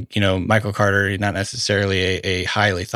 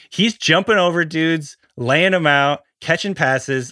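excited; 5 semitones higher than usual. Real, not acted. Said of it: "I'm obviously exaggerating".

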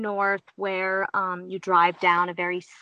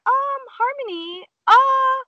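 high, uneasy call to a friend; retold rising alarm, hesitant; nervous appeal; 5 dB louder, slower than usual. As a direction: call for help while trying to stay polite. Uneasy as horse crowds her.

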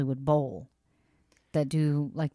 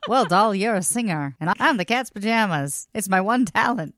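louder 1930s slang radio voice; old radio announcer; 4 dB louder than usual. Acted. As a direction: play a snappy thirties radio man. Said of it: "My nineteen thirties radio voice is back".

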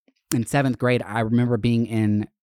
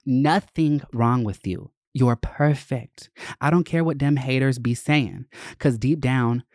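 voicing girlfriend's note; 3 semitones higher than usual. Reading second love note aloud.

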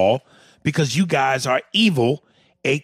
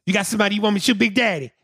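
eager henchman; 5 semitones higher than usual. Retold or imitated. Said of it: "Do I call".

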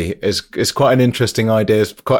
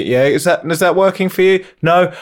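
mock cockney; 6 semitones higher than usual. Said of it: "imagine if I was a really massive, like, cockney".

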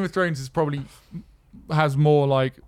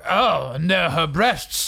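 put-on old granddad voice; much slower than usual. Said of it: "my granddad describing it".

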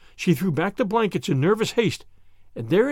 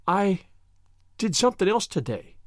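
muffled voice; 2 semitones higher than usual. A narrator's reading. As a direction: speak as if face in a shoulder. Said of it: "in a muffled voice".

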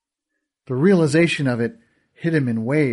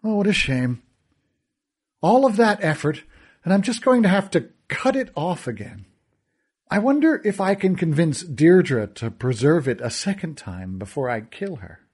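a lightly voiced sneering villain; a hint of a gloating fairy lord; mocking villain; 3 semitones higher than usual. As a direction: purr it with cruel amusement.

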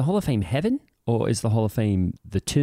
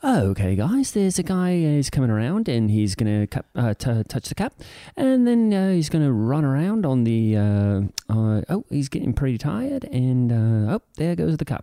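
lightly done sports announcer call; play-by-play of a dull race, half-hearted. Shown as a demonstration. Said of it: "Let's hear a little bit of that".

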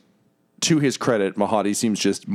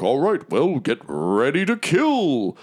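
Mahadi rallying; 8 semitones higher than usual. Acted.

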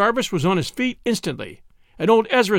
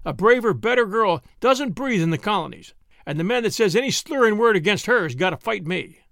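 a hint of a young man defending his girl, higher; lightly voiced earnest soldier; 6 semitones higher than usual. A narrator's reading. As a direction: defend her honour earnestly.

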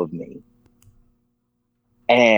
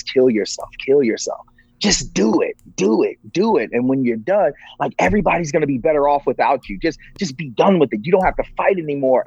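higher-pitched, insistent inner voices, retold; urging inner voices; 4 semitones higher than usual. Speaker retells the voices in his head, urging insistently. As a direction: press them to give in, pitched up, without shouting. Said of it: "I started hearing all these voices".

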